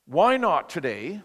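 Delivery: slow, pointed challenge; confronting challenge. Acted. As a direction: draw out the question as a challenge. Confronting thought hits him, acted.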